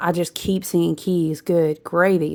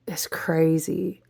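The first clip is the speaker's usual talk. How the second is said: whisper; 5 dB quieter, much slower than usual. Real, not acted. Awed whisper.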